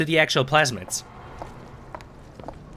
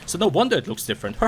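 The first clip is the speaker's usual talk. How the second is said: mocking excuse. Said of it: "could literally just say the excuse".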